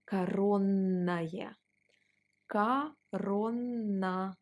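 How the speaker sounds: коронное with the NN held long, корон-н-ное; long double N. Shown as a demonstration. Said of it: "we pronounce it like a long N".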